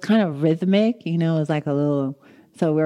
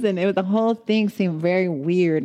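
usual speaking voice

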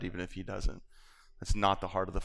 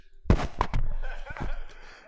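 wordless mock sobbing noise; imitated weeping; 3 dB louder than usual. Preacher imitates the cashier at the checkout, mock weeping. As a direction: imitate a cashier bursting into sobs. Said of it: "she's crying again, and the cashier's just".

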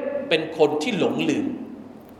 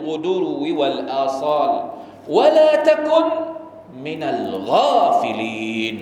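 Quran recitation. Acted. Imam quoting the verse to the congregation, chanted recitation.

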